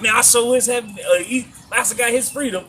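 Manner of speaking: a hint of mock servile delight; happy slave impression. Retelling Fiddler rejoicing over Master's freedom, mock happy slave.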